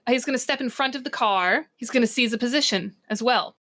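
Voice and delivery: measured, deliberate scene-setting; game master narration. A narrator's reading. Game master narrating Varric's attack to players, dramatic narration. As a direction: announce each move with dramatic weight.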